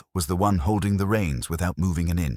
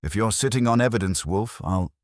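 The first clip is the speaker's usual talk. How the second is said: threatening inspector; 5 semitones higher than usual. Acted. Inspector threatens Wolf, cut off.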